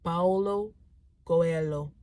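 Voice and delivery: Spanish accent on Paulo Coelho. Shown as a demonstration. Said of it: "I'm trying to sound Spanish and use my Spanish accent".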